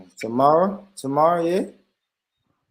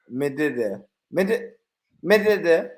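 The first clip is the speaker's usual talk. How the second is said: clumsy attempt at a Jamaican accent; forced patois; self-mocking learner trying out a Jamaican accent; bad patois; 3 semitones higher than usual. Shown as a demonstration. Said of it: "my patois is horrible".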